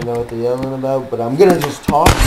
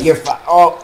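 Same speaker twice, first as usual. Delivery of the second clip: dying noise; 2 semitones higher than usual. Pretend. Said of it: "That's my dying noise".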